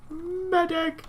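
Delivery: loud, high cry for a medic; man down shout. Pretend. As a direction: yell it like you're hit. Calling for a medic in game.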